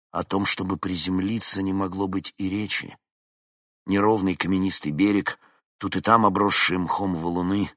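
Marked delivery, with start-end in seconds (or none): none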